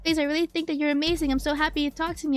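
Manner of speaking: high, anxious begging voice; desperate pleading. Acted. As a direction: beg her not to leave you. Apologizing, begging character.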